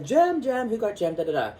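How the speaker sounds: imitating Mad Hatter. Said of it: "He's like".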